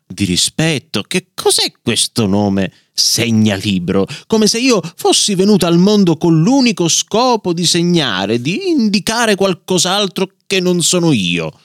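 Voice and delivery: a proud little strap venting its grievance, rising in pitch; indignant outburst. Acted. Bookmark leather tongue protesting to the family, indignant outburst. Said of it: "sbottò in presenza di tutti".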